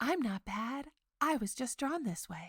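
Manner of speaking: very sultry, heavily sultry voice. Describing the Who Framed Roger Rabbit universe, speaker quotes Jessica Rabbit in a sultry voice. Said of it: "who says in her very sultry voice".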